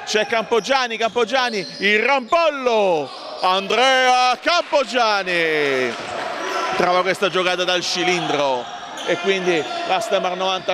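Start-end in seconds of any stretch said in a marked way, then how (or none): 0.0-5.9 drawing out the player's name; excited commentary. Real, not acted. Big play call, name drawn out. (telecronaca entusiasta)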